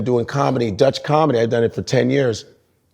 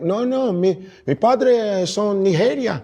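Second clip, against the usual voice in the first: put-on old Cuban guy; 9 semitones higher than usual. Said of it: "they'd be like".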